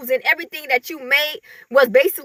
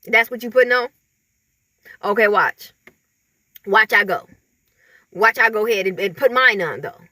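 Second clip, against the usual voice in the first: lower, scheming copycat voice, a bit fast in places; lower mock rival voice; 4 semitones lower, faster than usual. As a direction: play the petty rival plotting to top you, voiced low. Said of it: "Be like".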